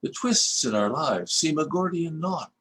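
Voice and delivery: reflective verse reading with questions lifted; poem reading. Acted. Poet reading his reunion poem to old classmates, reflective recitation. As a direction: read the verses as gentle musings on the past.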